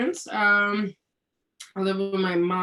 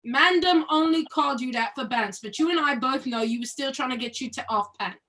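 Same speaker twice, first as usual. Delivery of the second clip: put-on London street British accent. Teasing her friend in the play in a British accent. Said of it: "read it in a British accent".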